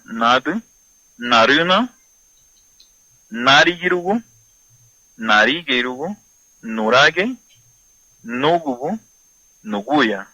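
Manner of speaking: each word said loudly, rising at the end; slow word list. Shown as a demonstration. Teacher repeating the body words for radio listeners, loud and slow. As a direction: pace out the Garifuna words one at a time. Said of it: "continuamos con la clase de garífuna".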